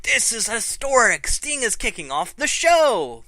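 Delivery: a hint of Michael Cole calling history; Michael Cole impression. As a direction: hype it like a wrestling commentator. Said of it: "Michael Cole's like".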